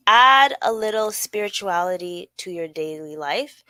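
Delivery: measured, emphatic list-item reading; slow, deliberate reading. Real, not acted. Host reading suggestions to listeners, slowly and deliberately. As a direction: read the tip out slowly and firmly. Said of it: "say them as slowly as possible".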